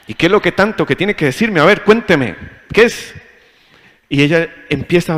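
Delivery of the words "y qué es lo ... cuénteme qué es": louder, higher, tense challenge rising at the end; barely held anger. Retold or imitated. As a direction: snap it through clenched patience. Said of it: "Pero por dentro está así".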